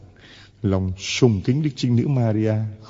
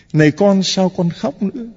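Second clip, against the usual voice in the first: raised calling voice; 7 semitones higher, 3 dB louder than usual. Acted. Preacher calling out the question.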